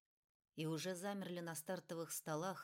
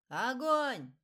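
much higher, louder fire command; shouted order; 7 semitones higher, 13 dB louder than usual. Acted. (громкий крик приказа)

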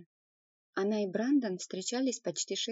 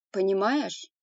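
tense, louder sharp question; 9 dB louder, slower than usual. A narrator's reading. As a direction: snap it back, strained and tense. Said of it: "Его голос внезапно стал напряжённым".

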